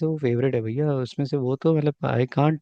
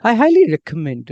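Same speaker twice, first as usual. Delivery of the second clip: slow model phrase; 5 dB louder, slower than usual. Shown as a demonstration. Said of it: "दोबारा करते हैं".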